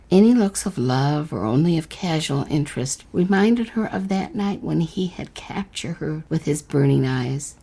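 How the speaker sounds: unhurried storyteller reading a fairy tale; story narration. A narrator's reading. Host reading the letter-writer's story to listeners, narrating. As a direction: read it like a bedtime tale.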